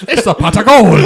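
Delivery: high, laughing through the punchline. Real, not acted. Adding a pot of gold joke to the Irish gag, laughing. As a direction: toss the joke out mid laugh.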